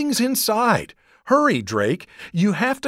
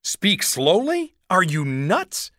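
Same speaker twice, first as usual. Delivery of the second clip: put-on girl gabbling in fear about a monster; panicked rush; 9 semitones higher than usual. A narrator's reading. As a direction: babble it out in terror.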